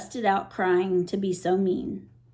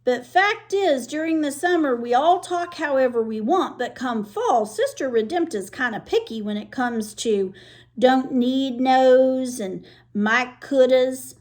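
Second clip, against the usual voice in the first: put-on girl's voice; 4 semitones higher, 3 dB louder than usual. Girl voiced in story.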